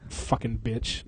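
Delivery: slow voiceless whisper; whispered curse. Real, not acted. Cursing the lady who won, a slow whisper. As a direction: hiss it under your breath.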